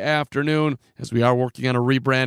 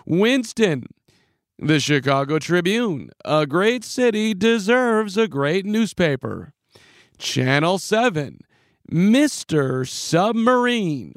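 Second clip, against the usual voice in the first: higher, lightly hammed PA announcer; Tommy Edwards announcer read; 4 semitones higher, slower than usual. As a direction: recite it like the arena PA guy. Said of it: "I can still remember the script".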